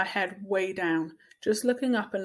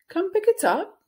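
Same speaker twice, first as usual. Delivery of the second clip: brisk, firm and higher; no nonsense; 11 semitones higher, 6 dB louder than usual. A narrator's reading. Teacher holds out the folder to Julian, firm and no nonsense. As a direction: hand it over with no room for argument. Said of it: "kind of no nonsense".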